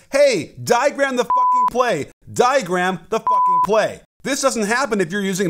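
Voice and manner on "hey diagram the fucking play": imitating the coach yelling at his guys; yell at players. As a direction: bark it across the bench, half-hammed. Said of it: "to yell at his other guys".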